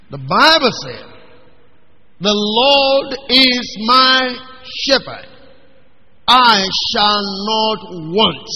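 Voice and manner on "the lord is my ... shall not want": slow, weighty reading of the verse; solemn scripture recitation. Acted. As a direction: lay each word down slowly like a sacred text. Preacher recites Psalm 23.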